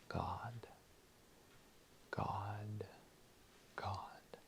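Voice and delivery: soft unvoiced whisper; whispered God. Shown as a demonstration. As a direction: breathe the name in a whisper. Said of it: "my silent war cry will be".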